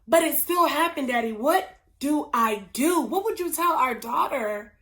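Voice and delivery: mounting, pressing retold plea; insistent pushing. Lily confronting Ryle about their daughter, pushing insistently. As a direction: press him harder, acting the desperate mother. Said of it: "Lily keeps pushing".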